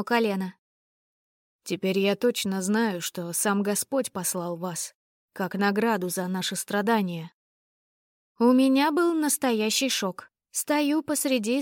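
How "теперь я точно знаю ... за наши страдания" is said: ardent duke. Acted. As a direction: swear it devotedly. Duke's ardent declaration.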